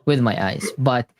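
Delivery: drowsy, half asleep; fighting sleep mid-sentence; nodding off. Real, not acted. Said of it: "I'm falling asleep while I'm talking".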